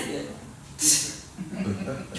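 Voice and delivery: slow words through a real laugh. Real, not acted. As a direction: chuckle it out slowly. Laughs at eye-rolling example.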